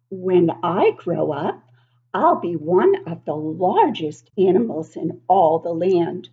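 a hint of a playful young elephant introducing himself; baby elephant voice. Reading to children as Beko the elephant, lightly voiced.

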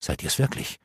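breathless hushed question; a soft unvoiced plea to his mistress; whispered. A narrator's reading. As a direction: whisper it in disbelief. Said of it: "fragte er leise".

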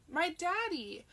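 put-on high, loud toddler squeal; screech. A narrator's reading. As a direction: squeal with joy like a little girl. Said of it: "Small Annabelle screeched".

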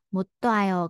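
못 와요 run together with a t sound; linked sounds. Shown as a demonstration. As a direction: link 못 into 와요 through a t sound. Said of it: "nối âm lên thành chữ tờ".

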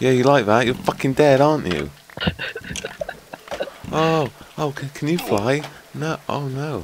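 excited taunts turning to panic; excited fighting. Real, not acted. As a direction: shout through the scramble. Fighting mobs in game.

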